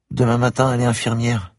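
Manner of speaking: put-on a shy child of nine, close to tears; little girl voice. A narrator's reading. Little girl at the door tells the policeman she is locked out, high and tearful.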